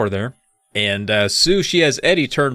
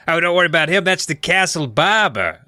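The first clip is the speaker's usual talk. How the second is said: lightly Australian; 4 semitones higher than usual. Pretend.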